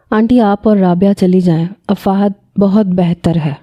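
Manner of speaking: cold and dismissive, slowing at the end; sending them away without warmth; curt, dry. Acted. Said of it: "Noreen نے بہت روکھے سے انداز میں". (روکھے اور سرد انداز میں)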